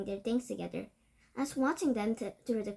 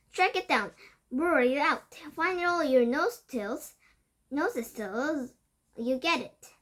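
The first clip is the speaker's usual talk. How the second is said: commanding shout; 4 semitones higher, 5 dB louder, slower than usual. Acted. Witch ordering the hunt.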